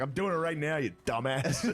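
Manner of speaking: irritated dad. Retold or imitated. Dad answering mom about the trash, mock irritation. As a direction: imitate an exasperated dad's comeback. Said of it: "My dad called my mom a dumbass".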